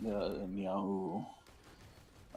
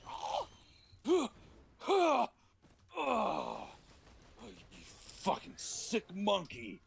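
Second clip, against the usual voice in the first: high whooping monkey cries, slow at the end; monkey yells; slower than usual. Retold or imitated. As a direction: ham up a wild excited monkey. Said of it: "the monkey's like".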